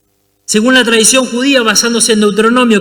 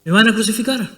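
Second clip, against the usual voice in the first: soft, hollow inner voice; fearful murmur; 6 dB quieter, faster than usual. Acted. Barabbas dreading crucifixion, quiet murmured thought. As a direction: say it under your breath in dread.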